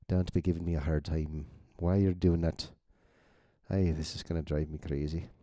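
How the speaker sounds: badly faked Irish accent; terrible Irish accent. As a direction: grumble in a half-hearted, clumsy Irish accent. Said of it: "That's a terrible Irish accent that you're hearing".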